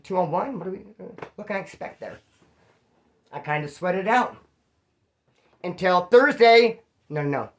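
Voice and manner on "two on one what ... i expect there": timid, weak voice. Shown as a demonstration. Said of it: "my voice would have cracked".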